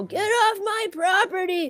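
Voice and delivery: booming, loud, drawn-out yell. Retelling how dad chased riders off the land: imitating dad's loud shout. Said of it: "his voice was louder than the shotgun".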